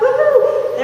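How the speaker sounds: high, loud celebratory woohoo; gleeful, high-pitched cheer; excited whoop. Acted. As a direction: whoop it up like a giddy new recruit. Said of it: "They're all excited".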